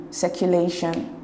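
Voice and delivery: circulation said slowly, LA strongest; stress on LA. Shown as a demonstration. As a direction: slowly lean on "lay" in circulation. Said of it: "the stress is on lay".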